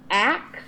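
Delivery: axe said with the K before the S; axe, ending K then S; axe, clearly contrasted with ask; the word axe. Shown as a demonstration. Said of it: "the K sound comes before the S".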